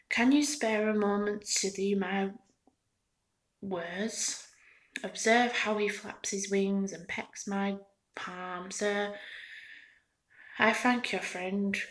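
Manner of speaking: lightly voiced eager toy seller; eager toy peddler.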